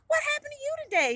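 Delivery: high, quick, eager question; curious surprise. A narrator's reading. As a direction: friend asking in amazement. Friend curious about her high spirits.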